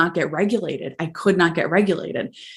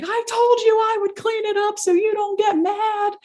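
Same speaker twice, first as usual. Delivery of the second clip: high-pitched mock sobbing wail; reenacted tearful protest, pitched way up; crying. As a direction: whine it through pretend tears. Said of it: "like, crying and I'm like".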